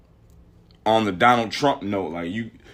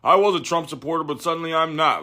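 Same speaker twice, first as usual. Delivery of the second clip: mock convert; 4 semitones higher than usual. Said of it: "It was like".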